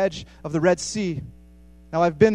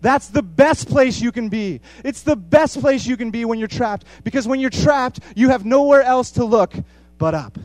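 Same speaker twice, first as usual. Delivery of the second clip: loud, higher and slow booming proclamation; God yelling down; 5 semitones higher, 7 dB louder than usual. Retold or imitated. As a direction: bellow it down from above, slowly. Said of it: "God yells down to us and says".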